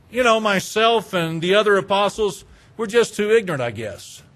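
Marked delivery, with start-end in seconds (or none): 2.8-4.2 sarcastic. Acted. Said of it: "implementing a little bit of sarcasm".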